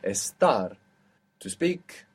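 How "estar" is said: "Estar" stressed on TAR; stress on the end. Shown as a demonstration. Teacher repeating the student's to be answer, "Estar" stressed on TAR. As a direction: lean on the last syllable of "Estar". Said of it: "the accent is coming on the end".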